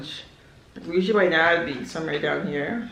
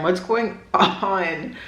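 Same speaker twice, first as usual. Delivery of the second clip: laughing; much slower than usual. Real, not acted. Laughs at own tears.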